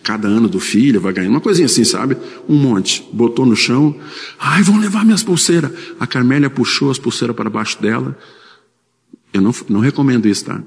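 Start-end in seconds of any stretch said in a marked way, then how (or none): 4.4-5.7 high-pitched mock lament; lady's fretful cry. Frightened lady on the floor fearing for her bracelets, high mock lament.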